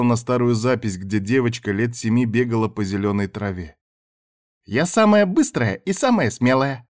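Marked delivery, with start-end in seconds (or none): 4.6-6.9 put-on a higher, louder little girl's boast; shouting little girl. A narrator's reading. Little Zayna boasting while she runs, a bright shout. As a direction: shout it proud like a seven-year-old. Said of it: "кричала она".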